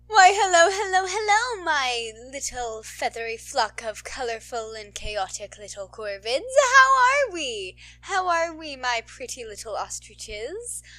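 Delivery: grand, hammed-up hello, then drawn out; theatrical greeting. Host welcoming her listeners, hammed-up showman greeting.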